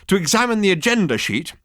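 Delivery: strident. A narrator's reading. Girl lecturing Ford on the agenda, strident. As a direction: press the point primly. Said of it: "the girl with the strident voice".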